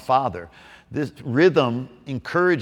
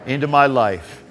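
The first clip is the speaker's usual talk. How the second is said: prayer. Acted. Leading salvation prayer aloud.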